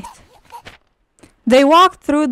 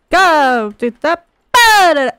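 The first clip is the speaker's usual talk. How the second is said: mock order; 3 semitones higher, 4 dB louder, slower than usual. Ordering baby in game.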